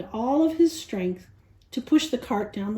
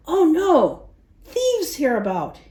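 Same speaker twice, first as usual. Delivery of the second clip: a sudden high, louder alarm, then wary; warningly; 5 semitones higher, 3 dB louder than usual. Acted. Nicholas spotting the robbed dog, mild warning. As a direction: warn of danger. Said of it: "he said warningly".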